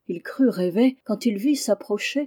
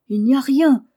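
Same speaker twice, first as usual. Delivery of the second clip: loud, high dismissal; emphatic, raised-voice denial; calling out; 6 semitones higher, 8 dB louder than usual. A narrator's reading. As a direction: call it down from up a ladder. Vevette calls down from the ladder.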